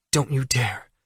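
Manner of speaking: Allie tells Jack not to answer, warning. Acted. Allie warns Jack off phone.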